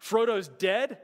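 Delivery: put-on incredulous child watching the movie; imitating son's shock. Father imitates his son seeing Frodo die, mock disbelief. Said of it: "Caleb's sitting there going".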